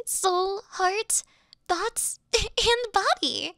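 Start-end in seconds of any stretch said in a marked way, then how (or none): 2.3-3.5 breaks into a giggle on the last word, higher; giggling, caught out by her own slip; flustered laugh. Acted. Flustered slip while flattering mistress.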